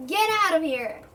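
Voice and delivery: half-hearted shout to leave; mild yell. Acted. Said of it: "I yell".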